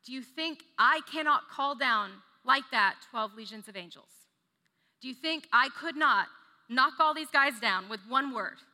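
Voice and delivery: mighty, bragging challenge; boastful power. Shown as a demonstration. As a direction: brag about the power to strike them down. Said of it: "He doesn't say".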